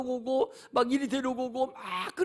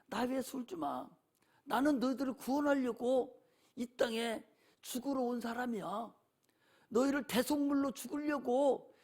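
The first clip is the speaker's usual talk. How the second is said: a hint of Jesus speaking tenderly to the weeping women; lightly voiced Jesus turning to comfort the crying daughters of Jerusalem; gentle Jesus; 3 semitones lower than usual. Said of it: "뒤돌아보면서 하시는 말씀이".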